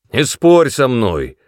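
loud, slow, harsh yell; rough shout. A narrator's reading. Son roughly shouting at his mother. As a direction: roar it at her. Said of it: "закричал он грубо".

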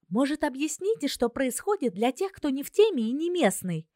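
put-on confused girl demanding an explanation; Zina's voice.

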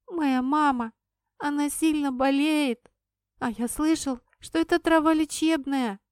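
high, loud, broken-up tearful explanation; a boy near tears over his sick mother; halting tearful boy. Acted. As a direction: stumble through it close to tears. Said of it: "сбивчиво объяснил мальчик".

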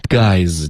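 "Guys" as one syllable ending in a light z; short final z. Shown as a demonstration. Teacher models for student, one-syllable "Guys". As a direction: end "Guys" on a buzz with no vowel. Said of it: "Guys结尾的z不要发成z".

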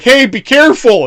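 high, loud startled shout up at the window; mock yell. Cop calling up to the guy who dropped the body, high loud shout. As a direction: call up in alarm at the falling body. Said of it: "he's like".

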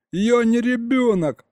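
high-pitched indignant protest. A narrator's reading. Boy objecting to being called a child, indignant. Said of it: "возмутился я".

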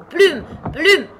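high, loud one-word call with falling tune; crying out. A narrator's reading. Sheep at her knitting to Alice rowing, crying out. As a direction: call it out like a sudden order. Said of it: "cria de nouveau la brebis".

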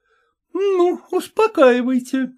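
dry ironic permission. Acted. Landysheva leaving, ironic and mocking. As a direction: say it with a mocking smile. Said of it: "иронически улыбнулась Ландышева".

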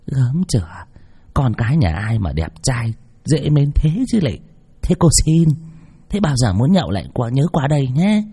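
lightly voiced fawning shopkeeper lady; sweet-talking old shopkeeper seeing guests off; effusive shopkeeper. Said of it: "bà chủ đon đả".

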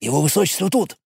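hushed, passing it along the crowd; crowd whisper. Acted. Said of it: "зашептались в толпе".

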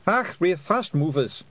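high, loud rough Scottish pixie; indignant little Scottish warrior; Feegle voice. A narrator's reading. Rob Anybody speaking.

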